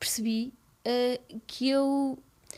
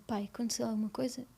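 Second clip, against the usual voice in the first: hushed, voiceless question to her father; retold whisper; 7 dB quieter than usual. Daughter quietly asks her father what happened, in a whisper. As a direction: breathe the question softly, imitating that morning.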